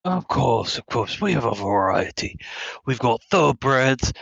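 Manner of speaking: lightly voiced sly shopkeeper; a hint of a sly merchant pitch; Resident Evil Four merchant. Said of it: "Resident Evil Four merchant voice".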